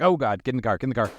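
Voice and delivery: loud, high urgent yell; panicked shout. Acted. Under fire, Roy yells at the driver to get in. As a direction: shout them into the car fast.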